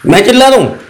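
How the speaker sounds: offended retort, falling at the end; मैं चिल्ला रहा हूँ asked in mock offence; indignant question. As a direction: throw the accusation back, stung. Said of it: "आप इतना चिल्ला क्यों रहे हैं".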